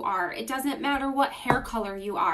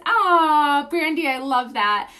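delighted cry; 4 semitones higher, 8 dB louder, slower than usual. Real, not acted. Delighted reading a viewer comment.

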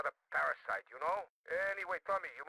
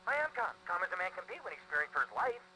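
mild panic. Acted. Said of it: "Don't I sound calm?".

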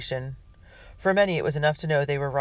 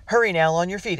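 loud, higher commanding call; 4 semitones higher, 5 dB louder than usual. Acted. Captain wakes Matt to catch the patrol, calling out. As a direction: get the boy up and moving. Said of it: "a deep voice called".

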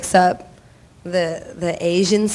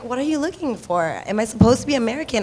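retold baffled questioning; 4 semitones higher, faster than usual. Retold confusion at casting demand.

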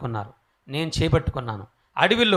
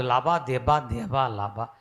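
mock speaking in tongues; 2 semitones lower, much slower than usual. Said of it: "భాషలు తప్ప తెలుగు కూడా రాదు".

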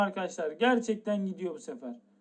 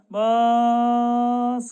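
loud eager bark; excited shout; 6 dB louder than usual. Real, not acted. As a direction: punch it out loud. Hyped box opening, shouting press.

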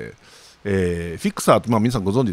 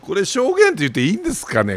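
pitched way up in disbelief, quick; incredulous high query; 12 semitones higher, faster than usual. Real, not acted. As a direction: ask it sharply higher, amazed.

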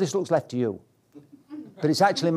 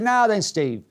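higher-pitched imitation of broad Yorkshire; broad Yorkshire accent; 6 semitones higher, slower than usual. Flying instructor greets his pupil, imitated broad Yorkshire accent. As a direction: put on a hearty Yorkshire instructor. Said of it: "in this broad Yorkshire accent".

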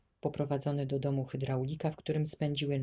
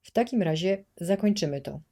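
loud, menacing boom on takim; terrible booming voice; 4 semitones higher, 7 dB louder than usual. A narrator's reading. Administrator booms a threat at the children, loud. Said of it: "strasznym głosem huknął".

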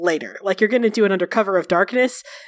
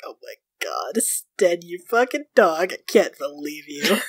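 mock scandalized; 4 semitones lower, slower than usual. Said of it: "Fred's like".

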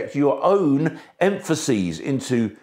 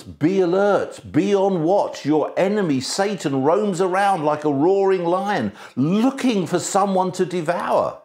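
mildly raised, emphatic warning; urgent warning; 4 semitones higher than usual. Acted. Preacher quoting the Bible's warning about a prowling enemy, urgent warning. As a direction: sound a scriptural warning with some urgency. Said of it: "No wonder the Bible warns us".

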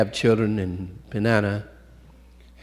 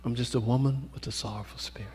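pleading woman; 4 semitones higher, 5 dB quieter, faster than usual. Retold or imitated. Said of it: "So she said".

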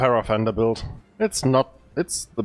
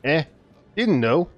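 fake Scottish accent. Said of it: "I had to do that fake bad Scottish accent".

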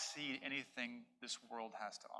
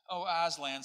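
through tears; 4 semitones higher, 10 dB louder than usual. Acted. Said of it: "said Lucy through her tears".

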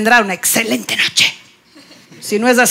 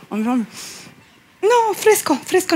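sulky denial; 3 semitones higher, 5 dB quieter, much slower than usual. Acted. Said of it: "Ella muy digna".

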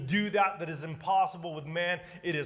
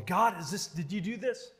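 doubtful questioning; 5 semitones higher than usual. Acted. Prophet questioning God, acted.

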